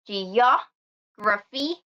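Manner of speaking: "geography" with stress on OG; stress on third-last syllable. Shown as a demonstration. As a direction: lean on the second syllable of "geography", then pause. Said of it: "stress the third from the last syllable".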